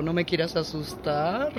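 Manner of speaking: ordinary talk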